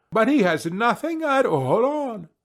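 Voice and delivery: mild crowd outcry; crying out. A narrator's reading. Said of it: "cried out all the people".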